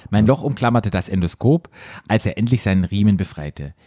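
measured read-aloud narration; story narration. A narrator's reading. Host reading a story to co-host, measured narration.

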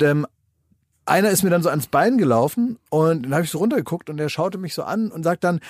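ordinary talk

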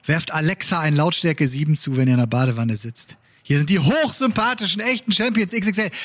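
aufgedrehte Radio-Begrüßung; Moderator-Intro. Acted. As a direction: schwungvoll die Show anmoderieren. (energische Podcast-Anmoderation)

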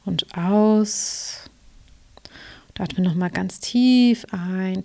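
slow, calm meditation guide voice; guided meditation. Acted. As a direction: ease the listener into relaxation. Coach leads a guided meditation.

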